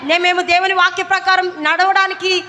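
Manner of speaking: rallying the congregation with a shout; preacher calling for a loud response; fast, loud call for a response. Real, not acted. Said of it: "గట్టిగా హల్లెలూయా చెప్తారా".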